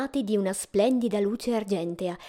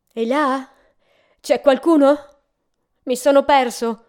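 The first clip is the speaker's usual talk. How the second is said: louder, raised call for anyone inside; 5 semitones higher, 9 dB louder than usual. Acted. Lost traveller knocks at a lonely house, calling out. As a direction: call out as if lost at a stranger's door.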